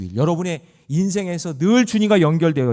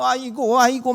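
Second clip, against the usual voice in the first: mock wailing; 9 semitones higher, 4 dB louder than usual. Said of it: "눈물 흘리면서 생쇼를 하잖아요".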